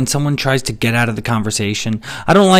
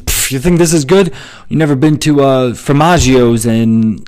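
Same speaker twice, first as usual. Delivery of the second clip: mock dismissive, pitched up and louder; scoffing food snob; 2 semitones higher, 4 dB louder than usual. Food one-upper answering praise of pizza, mock scornful. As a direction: brush it off with a hammed-up scoff. Acting out pizza snob's retort.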